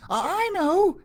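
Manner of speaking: high, loud eager cry; excited kid shouting. A narrator's reading. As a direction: blurt out the idea. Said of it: "he shouted".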